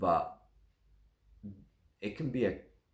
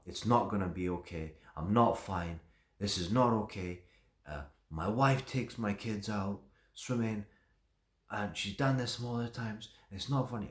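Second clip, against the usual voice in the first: imitating the upset father's outburst, mildly raised; half-hearted imitation of an angry father yelling; retold angry shouting; 4 semitones higher than usual. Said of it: "just starts shouting at me".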